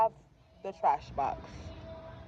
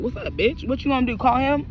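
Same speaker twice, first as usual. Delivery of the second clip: re-enacted confrontation; 5 semitones higher than usual. Re-enacted confrontation over the daughter.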